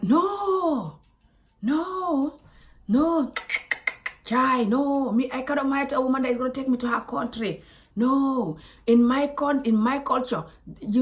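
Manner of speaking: high, hammed-up protest; mock upset refusal. Imitating her date refusing a wife who would take him home, mock upset. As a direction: play him refusing with drama.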